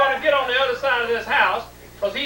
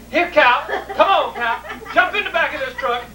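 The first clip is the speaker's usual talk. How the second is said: raised mock cattle call; calling cows; 4 semitones higher than usual. Rustler coaxes cows into the truck, mock calling. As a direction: call the cows over, a little higher.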